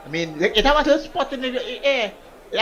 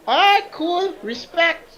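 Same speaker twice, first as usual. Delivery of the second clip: mock impressed self; 10 semitones higher, much slower than usual.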